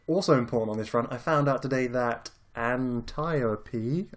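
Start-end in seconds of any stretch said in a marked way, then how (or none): 2.5-4.1 Antiope said an-TIE-oh-pee; mispronounced name. Real, not acted. Podcaster unsure of the Amazon's name, mispronounced. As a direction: say Antiope with TIE in the second syllable. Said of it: "I'm definitely saying that wrong".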